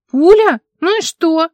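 high, loud disbelieving question; sharp surprised outburst; incredulous. Acted. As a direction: scoff at it, astonished and dismissive. Mara incredulous at bullet.

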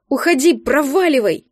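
put-on child yelling through tears; crying shout. A narrator's reading. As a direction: scream it, sobbing and furious. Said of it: "люто закричал сквозь слёзы". (детский крик сквозь слёзы)

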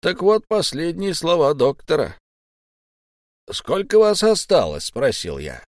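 put-on butter up the captive boy, slyly; sly pirate Silver. A narrator's reading. Old pirate coaxing his captive boy, sly and friendly. Silver delivers doctor's message.

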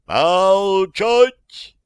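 loud high barked command; громкий приказ. A narrator's reading. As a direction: cut the quarrel dead with one word. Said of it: "Голос Ватулина прекратил". (громкий высокий командный окрик)

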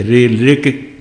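रि, ऋक in two parts, क released; final क sounded. Shown as a demonstration. Teacher repeating the model, रि, ऋक with distinct क. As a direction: separate रि from ऋक and finish on क. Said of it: "क उच्चारण होना चाहिए".

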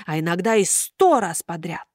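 ordinary delivery, nothing marked

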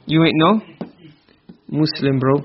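You ain't no said slowly, with pauses between words; drawn out with pauses before Muslim; slow drawn-out quote. Shown as a demonstration. Teacher quoting street slang, words spaced out slowly. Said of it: "Remember that one?".

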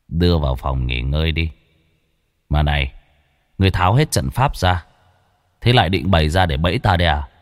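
low, cold and weighty voice of a demon lord; cold heavy demon voice. Acted. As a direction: speak like an unbothered ancient demon, low and cold. Demon lord gives orders.

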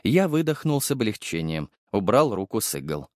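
usual speaking voice

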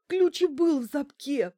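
high, loud tearful wail; sobbing into phone. A narrator's reading. Bankina sobbing down the phone about the key. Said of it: "прорыдала в трубку Банкина".

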